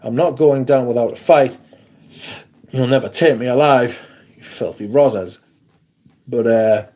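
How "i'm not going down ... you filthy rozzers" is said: mock defiant outlaw. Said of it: "And I was like".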